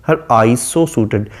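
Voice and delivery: slow, measured recitation of the verse; reading the poem. Shown as a demonstration. Teacher reciting the sonnet line slowly to students. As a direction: read the line out slowly to the class.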